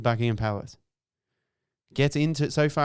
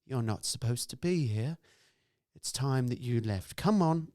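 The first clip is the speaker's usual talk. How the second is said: calm voice; 4 dB quieter than usual. Retold or imitated. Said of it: "she said in a calm voice".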